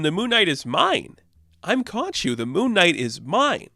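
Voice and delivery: lightly voiced jealous god, pitch jumping up; possessive god. Khonshu refusing to give up Moon Knight, mildly indignant god. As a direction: claim it as yours, a touch indignant.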